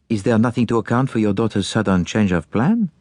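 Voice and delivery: put-on courteous, accented detective voice; formal Belgian-accented questioning. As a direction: accept the case as a polite foreign sleuth.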